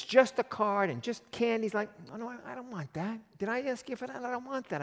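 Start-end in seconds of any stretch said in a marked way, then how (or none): 2.1-4.8 mock dismissive. God voiced refusing cheap gifts.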